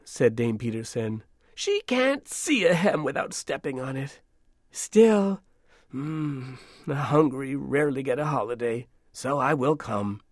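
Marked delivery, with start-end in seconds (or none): 1.5-10.2 put-on old woman voice. Grumbling old dame.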